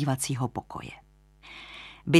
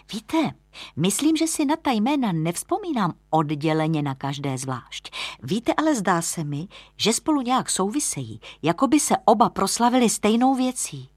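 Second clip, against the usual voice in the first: higher-pitched, lightly voiced lodger; musing young lodger; 5 semitones higher than usual. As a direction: puzzle it out aloud, pitch lifting. (přemýšlivý mladík, vyšším hlasem)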